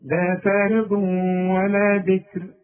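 slow and careful, light ra when stopping on "بكر"; تلاوة بطيئة مع ترقيق راء "بكر"; slow tajweed recitation. Shown as a demonstration. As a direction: recite "لا فارض ولا بكر" slowly, thin ra at the end. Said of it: "تقول لي".

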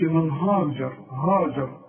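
هاجر with a thick, dark aa after the h; wrong heavy ha. Shown as a demonstration. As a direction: make the ها of هاجر heavy and back in the mouth. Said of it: "ما نقولش". (هاجر بتفخيم الهاء بالغلط)

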